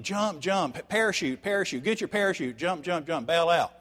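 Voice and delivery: high-pitched panicked yelling of jump orders; mock panicked pilot shouting; pilots screaming. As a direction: yell like a pilot over burning engines. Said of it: "the pilots start screaming".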